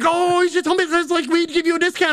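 high, eager mock woman's voice; lightly hammed-up PR woman offering a discount; imitating the PR woman. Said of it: "and she's like".

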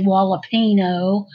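jalapeno said as "hala-PEE-no" with the j as an h; jalapeno with h sound. Shown as a demonstration. Speaker explains her Spanish pronunciation: jalapeno with h sound. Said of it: "my Spanish pronunciation".

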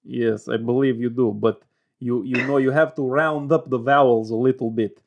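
put-on Russian-Ukrainian accent; Eastern European accent. Shown as a demonstration. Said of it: "very beautiful accent".

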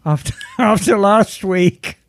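femme fatale. Acted. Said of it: "Classy Girl Couch. It's Miss Emma".

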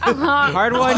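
amused exclamation. Real, not acted. Player laughing at companion's fail.

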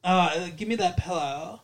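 pillow said as "pell-oh" in the phrase; odd pillow pronunciation. Shown as a demonstration. Showing the odd pillow in a sentence, "pell-oh". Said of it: "I've heard people say it".

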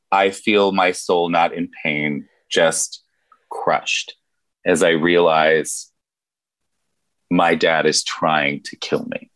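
low, halting, long pauses; crushed. Acted. Player narrates character's heartbreak.

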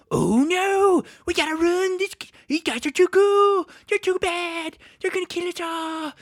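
high, loud mock-terrified goblin voice; panicking goblins. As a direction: wail in hammed-up goblin panic.

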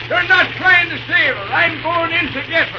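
shouting over the fire, alarmed; urgent shout. Acted. Mickey shouting to the others over the fire. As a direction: yell it across the burning yard. Fire, engine about to burn.

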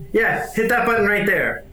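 Wade's voice. Acted. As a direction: pitch it up as a cocky character. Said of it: "Wade goes".

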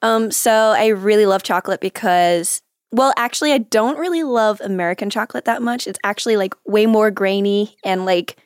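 careful, put-on American accent. Shown as a demonstration. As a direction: talk like an American, feeling your way. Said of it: "in an American accent".

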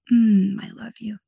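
breathy whispered greeting, unvoiced and intimate. Real, not acted. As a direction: whisper it tenderly as if to unseen angels. Channeling her angels, greeting them.

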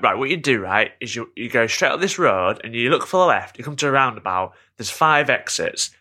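lightly voiced helpful local giving directions. Local explaining the way to the dog park, lightly imitated. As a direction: lightly imitate someone reeling off a route. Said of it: "she did that thing that people do who forget that Google Maps exists".

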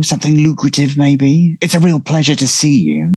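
oily flattery pitching for work; sycophantic charm. Acted. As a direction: schmooze her like a salesman. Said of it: "I laugh sycophantically".

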